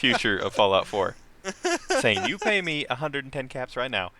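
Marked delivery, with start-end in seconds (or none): 2.3-4.1 put-on Boston accent. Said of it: "in his very Boston accent".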